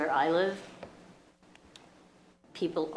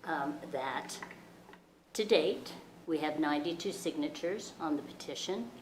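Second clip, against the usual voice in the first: very soft, hard to hear; barely audible; 6 dB quieter than usual. Real, not acted. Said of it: "Can you speak up, please?".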